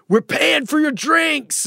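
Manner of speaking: drawn-out high mock cheer; excited bar cheer. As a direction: play the whole bar cheering for him. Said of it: "they said".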